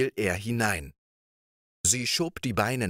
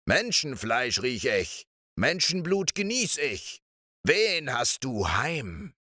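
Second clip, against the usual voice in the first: a lightly voiced ogre bellowing into the house; ogre shouting; 5 semitones higher than usual. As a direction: sniff out the prey like a hungry ogre. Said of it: "schrie er".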